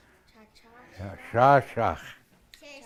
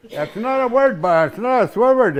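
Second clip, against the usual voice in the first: laughing; 9 semitones higher, 6 dB louder than usual. Real, not acted. Laughing at students' minds.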